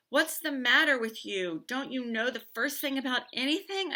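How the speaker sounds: loud, high, furious scream. A narrator's reading. Boy screaming at his sister on the stairs. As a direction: yell it at her in frustration. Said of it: "I scream".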